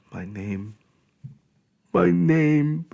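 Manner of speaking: pleading, breaking into sobs; begging through tears. Acted. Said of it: "I beg".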